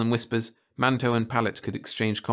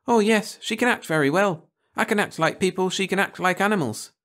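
lightly voiced eager girl, higher; bright little girl bragging about her friend; a hint of a boastful child; 10 semitones higher, 3 dB louder than usual. A narrator's reading.

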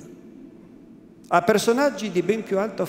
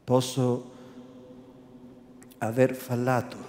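softer, gentler, lower-pitched apology; softened voice; 5 semitones lower, 5 dB quieter than usual. Acted. Renzo softens his tone toward the priest, apologetic. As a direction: ease off and offer it as a peace offering. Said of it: "con voce raddolcita".

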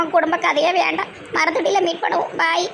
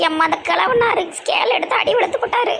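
laughing; 3 semitones higher than usual. Real, not acted. Laughing while retelling beating.

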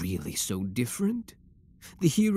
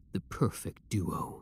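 softer, breathy unvoiced whisper; dreamy whisper; 3 semitones lower, 7 dB quieter than usual. Villain to beloved hero, softly whispering their future. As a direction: murmur it like a private wish.

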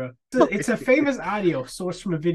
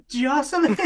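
lightly mocked Canadian accent, higher pitch; a singer, Canadian accent; 6 semitones higher than usual. Host mocking the singer's undisguised accent, Canadian accent impression. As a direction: put on a teasing Canadian accent. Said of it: "does not try to cover up his Canadian accent".

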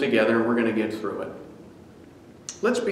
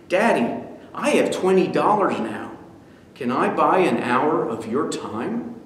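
put-on earnest boy. Son offering to buy his father's time, earnest. Boy's final request.

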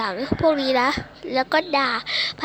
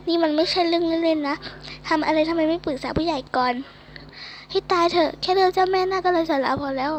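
lightly acted scolding teacher, pitch lifting in places; exasperated scolding; 2 semitones higher than usual. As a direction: mildly tell off a student in character.

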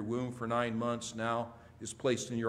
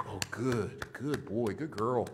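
put-on lilting baby-talk praise; acting out a parent cooing over a standing baby; sing-song "good" with gentle swoops; praising parent; slower than usual. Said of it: "and you go".

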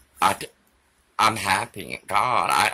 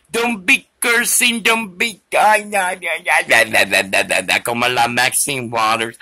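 mock rant; 2 semitones higher, 4 dB louder than usual. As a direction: rattle on nonsense like a scold. Mocking a ranting woman.

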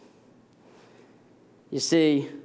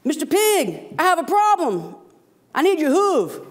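much higher squeaky mouse voice; pleading mouse; 13 semitones higher, 4 dB louder than usual. Acted. Mouse begging the pig for help, high squeaky plea. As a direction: beg like a tiny desperate mouse. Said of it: "And the mouse goes".

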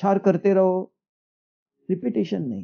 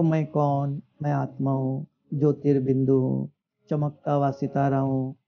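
low, level recitation on one note; rote contemplation; 4 semitones lower than usual. Acted. Teacher mimics a meditator reciting who he is, in rote monotone. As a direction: recite it evenly, like a memorised formula.

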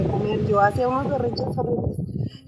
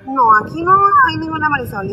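imitating mom's scolding, louder and higher; a retold mother's scold, raised and sharp; 5 semitones higher, 8 dB louder than usual. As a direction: scold the child firmly, as mom did. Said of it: "Entonces ella ya me regañaba".

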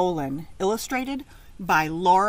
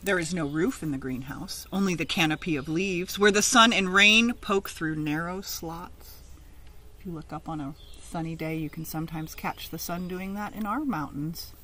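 lively picture-book reading; read-aloud story. Acted. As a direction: read it out to a class of children.

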